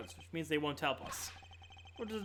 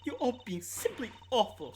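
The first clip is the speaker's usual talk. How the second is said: haughty warden voice; 6 semitones higher than usual. Acted. Voicing the warden character.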